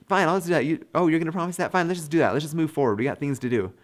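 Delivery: just agree to get it over with; a hint of a weary citizen waving a vote through; hasty agreement. Voicing citizens agreeing hastily.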